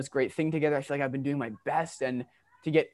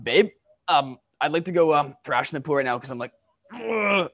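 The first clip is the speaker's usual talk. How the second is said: fed-up, louder ask trailing into an ugh; husband venting to his wife, exasperated and louder; exasperated plea; 3 dB louder than usual. Shown as a demonstration. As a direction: blurt it out, frustrated and a bit louder. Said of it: "Are you, like, saying it like that".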